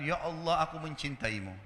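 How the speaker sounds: softly voiced imitation of weeping devotion; retold tearful prayer. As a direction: let it sink softly, mildly tearful. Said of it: "sambil menangis mengatakan". (menirukan doa haru, lirih)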